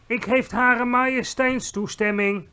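high, loud, drawn-out announcement; triumphant call. A narrator's reading. Giant gets the queen's permission, calling out triumphantly. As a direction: proclaim it slowly and loudly. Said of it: "riep de G V R".

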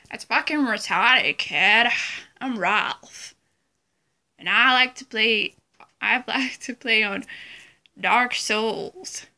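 loud, punchy Boston-guy impression; Ralph impression. Vlogger imitating Ralph for Jeff, loud mock Boston voice. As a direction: belt it out, drawing out the last words. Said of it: "that was my Ralph impression".

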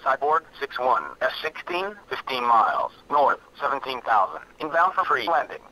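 pilot radio call, tinny and filtered; crisp radio check-in to tower; over a radio. Real, not acted.

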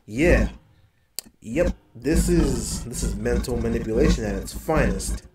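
otherworldly figure relishing the trick, laughing darkly; Diablo. Acted. Diablo answers the player mind to mind, in an altered creature voice. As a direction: put on an altered, emphatic creature voice. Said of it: "So I speak to Diablo".

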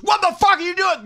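a hammed-up outburst grabbing the phone; mock angry yell. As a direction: play him yelling in disbelief. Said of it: "he goes".

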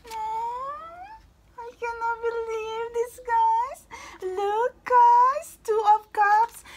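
high, loud squeal at the cards; overwhelmed disbelief. Real, not acted. Reader squealing to viewers over the Two of Cups, overwhelmed. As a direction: voice shoots right up, words stretched out in amazement.

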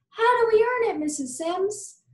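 put-on high eager child question; eager kid. A narrator's reading. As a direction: ask eagerly, hand waving. Eager kid voiced in story.

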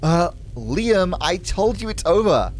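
lightly acted posh English woman; posh English refusal; posh English accent. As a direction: turn him away in posh English. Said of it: "She's gonna have a very posh English accent".

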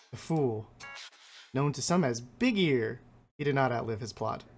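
a hint of ancient, pleased beings; slightly grand creature voice, savoring the pelts; lightly voiced pelt-hungry creatures. Creatures greeting the trapper who brings pelts, lightly grand. Voices game scribes' text.

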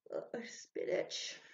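sleepy, slow half-whisper; drowsy. A narrator's reading. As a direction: mumble as if just waking. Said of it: "she said drowsily".

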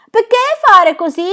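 very high, loud odd creature voice; a strange wood-creature's plaintive squeak; forest creature voice. Acted. The culotto asking the children, high creature voice. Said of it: "disse con desolazione".

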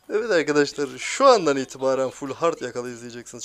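annoyed streamer announcement; angry announcement. Real, not acted. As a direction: declare it to viewers with irritated force. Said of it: "Çok sinir oldum şu an".

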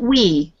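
"we" begun with a rounded W; W sound. Shown as a demonstration. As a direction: show the mistaken "we", with W for R. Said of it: "We is a W sound".

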